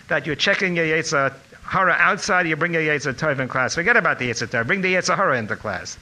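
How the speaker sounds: imitated Lithuanian rabbi scolding loudly; Lithuanian accent. Rabbi tells student what to bring to class, Lithuanian-accented scolding. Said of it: "in his Lithuanian accent".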